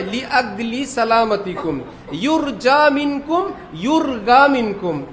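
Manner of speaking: slow announcement, ইউরগা said with a hard g; slow ইউরগা with g where the spelling has j; Egyptian airline Arabic. Retold or imitated. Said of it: "পড়ে".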